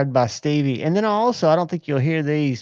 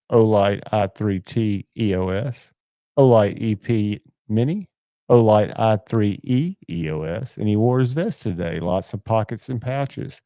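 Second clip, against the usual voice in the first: deeper radio voice. Shown as a demonstration. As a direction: read the list like a lightly deepened DJ. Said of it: "this is my, uh, deeper radio voice".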